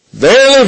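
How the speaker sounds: "Verily" jumps high and loud, then falls; emphatic verily. Shown as a demonstration. Jesus insisting Nicodemus listen, with emphasis. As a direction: ring out the first "Verily". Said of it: "I'm emphasizing, Nicodemus".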